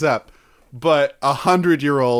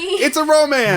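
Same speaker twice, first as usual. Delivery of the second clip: dramatic announcement; 13 semitones higher, 3 dB louder than usual. Pretend. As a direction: announce it like a movie title. Dramatic reading of title.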